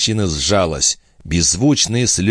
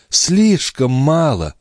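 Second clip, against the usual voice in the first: higher, slow and passionate; 8 semitones higher, much slower than usual. Acted. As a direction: repeat it in a burst of passion. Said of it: "повторила она и в страстном порыве".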